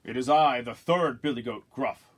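booming big goat; big loud voice. Acted. Third goat facing the troll, big loud voice. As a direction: announce it loudly like the biggest goat. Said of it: "as big and loud as the troll's".

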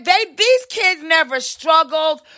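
heated shouted rant; shouting. Real, not acted. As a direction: shout it out in outrage. Ranting, shout heard.

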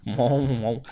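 a brief hummed mock singer moan; singer impersonation. Streamer spotting a famous singer in the game, singer-style moan. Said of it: "best singer impersonation".

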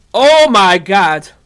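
dismay. Real, not acted. Finds the room empty.

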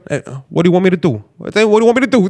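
shrugging mobster question; a hint of Paulie, dismissive; Paulie from Goodfellas. Imitating Paulie brushing off a complaint, shrugging. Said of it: "Paulie, il répond juste comme".

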